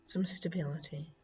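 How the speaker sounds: calm meditation voice with long pauses; guided meditation. Acted. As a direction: guide them gently into grounding, phrase by phrase. Leads earth element meditation.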